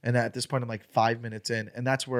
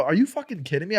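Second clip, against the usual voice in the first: retold angry retort; 5 semitones higher than usual. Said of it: "now we start arguing".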